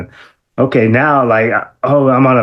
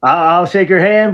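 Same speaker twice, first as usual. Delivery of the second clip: higher, mock dismissive shooing; brushing him off; 9 semitones higher than usual. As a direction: wave off the hero so he can't let you down. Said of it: "I would just".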